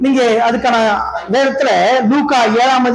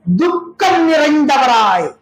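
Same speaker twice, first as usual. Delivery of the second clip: sorrowful quote; 2 semitones higher, much slower than usual. Acted. Quoting sorrowful Jesus, heard cry.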